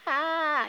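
thin, high-pitched sustained "ah"; imitated screech. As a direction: imitate a screech held high without extra volume. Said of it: "this screech".

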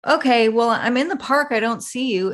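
a hint of a baffled mother; clueless mom. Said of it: "she's like".

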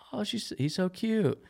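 high, slow gush over a puppy; drawn-out, high-pitched cooing; cooing girl. Acted. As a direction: imitate a girl melting at a cute dog. Acts girl cooing at dog.

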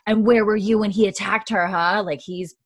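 mock angry confrontation. Jamie gets in Roger's face about the attack, mock angry confrontation. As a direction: square up and demand an answer, half-acted.

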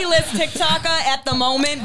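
slow, laughing self-mockery. Real, not acted. Laughing about being a small TikToker. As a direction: laugh it out slowly.

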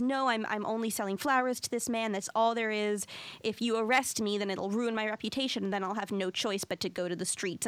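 off-the-cuff, matter-of-fact retelling; understated, offhand quote. Retold or imitated. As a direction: say it casually, as if nothing much. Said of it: "said very matter of fact, off the cuff".

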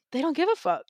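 high, light disbelieving aside, like it just clicked; stunned realization. Retold or imitated. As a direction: toss it off as the penny drops. Sudden realization quote, far voice.

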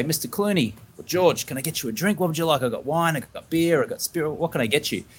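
lightly acted, rattling off the drink options hospitably; eager host. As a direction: offer drinks like a keen host. Imagined host greeting a celebrity guest.

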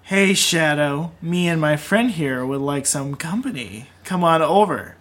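slow seductive siren voice. Acted. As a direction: lure him in slowly, sultry. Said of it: "do your siren voice".

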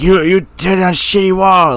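loud, high, slow mock Chinese accent; South Park Chinese accent. Mocking the actor's put-on accent for the show, cartoon Chinese accent. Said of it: "like that whole, like, South Park Chinese accent".

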